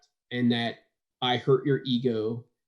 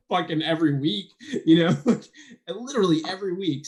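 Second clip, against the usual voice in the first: emphatic; 6 semitones higher than usual. Retold or imitated. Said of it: "I'm like".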